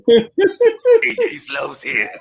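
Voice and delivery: very slow, high put-on intro; Slopes impression. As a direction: draw it out, laughing. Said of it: "You can rewatch it".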